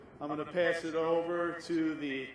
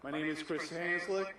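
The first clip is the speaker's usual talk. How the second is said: speaking winded after a climb; breathless, catching air between phrases; out of breath; 3 dB quieter than usual. Real, not acted. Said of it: "I'm out of breath".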